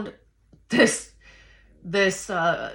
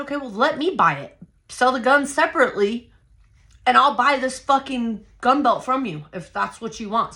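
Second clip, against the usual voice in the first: heated retort, pitched up; pissed, raised voice; 5 semitones higher, 3 dB louder than usual. Retold or imitated. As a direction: act out getting pissed while bargaining. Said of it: "I'm raising my voice".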